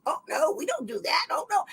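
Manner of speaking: high, sing-song mock denial; mocking the agency. Mimicking officials who deny gaslighting her, in a high mocking voice. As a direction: parrot their fake innocence up high. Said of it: "they've been gaslighting me for years".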